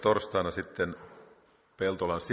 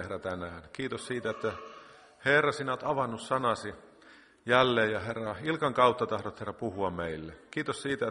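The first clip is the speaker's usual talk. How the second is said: earnest prayer voice, gently rising and falling with each Herra; spoken prayer; 3 semitones higher than usual. Acted. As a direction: pray aloud for the congregation, every phrase falling away.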